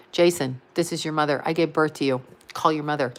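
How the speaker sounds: low, heavy guilt trip from mom; mother guilting her son Jason into calling, low and heavy; guilt-tripping mother. Pretend. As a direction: lay the guilt on thick, voice dropped low. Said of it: "How's that for guilt".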